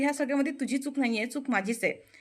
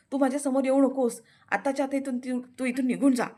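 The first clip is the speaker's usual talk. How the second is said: higher and louder, ordering her away; hyper angry shout; 3 semitones higher, 4 dB louder than usual. Acted. Prithvi ordering Anandi to leave, hyper angry shout. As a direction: drive her out with a yell. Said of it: "खूप hyper झालेला असतो".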